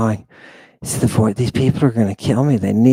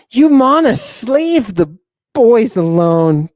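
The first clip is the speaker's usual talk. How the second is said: high mock scold; 7 semitones higher than usual.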